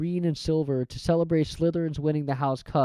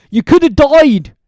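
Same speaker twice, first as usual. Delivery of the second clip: louder, higher sobbing giant; 11 semitones higher, 12 dB louder than usual. Acted. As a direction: cry it out. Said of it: "sobbed Hagrid".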